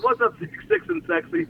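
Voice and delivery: high-pitched mimicry of a borrowed catchphrase. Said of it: "He's picking up on my one-liners".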